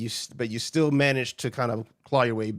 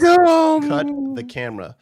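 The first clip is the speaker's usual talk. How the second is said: long drawn-out shout, much higher and louder; mock yell; 11 dB louder, slower than usual. Host shouting at the crew in mock outrage, long loud yell. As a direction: bellow it like a mock director's order.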